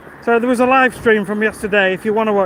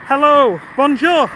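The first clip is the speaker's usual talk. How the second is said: playful French greeting; 5 semitones higher, 3 dB louder, slower than usual. Pretend. Greeting chat in French, higher.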